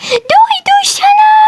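high, slow call across the playground; long, stretched call to someone far off. Acted. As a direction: shout it out to be heard from afar. Calling out across the park.

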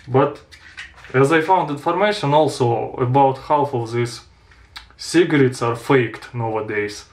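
talking around cigarette; cigarette in mouth. Real, not acted. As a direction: lips clamped on cigarette. Seen 2: Unlit cigarette held between lips throughout all labelled frames.

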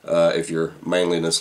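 speaking while puffing pipe; talking around a pipe. Real, not acted. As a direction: pipe stem between lips. Seen 2: Pipe stem held at lips until about 1.3s, then removed.

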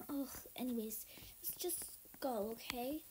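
low, soft whispered reassurance; sneaky whisper. Pretend. Soaked kid telling sister to sneak in, whispered. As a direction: hush it so no one notices. Quietly urging sister to store.

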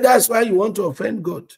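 loud disbelieving question; indignant challenge. Retold or imitated. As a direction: challenge her loudly. Pastor confronting her, retold.

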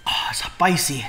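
slow whispered gasp through burning mouth; breathless whisper. Real, not acted. Vlogger whispering to camera through the spice burn, slow. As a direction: whisper it, mouth on fire, slowly.

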